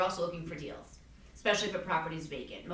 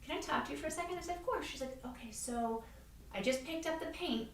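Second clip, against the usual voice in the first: nervous hesitant quote; 5 semitones higher, 9 dB quieter than usual. Retold or imitated. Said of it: "she said".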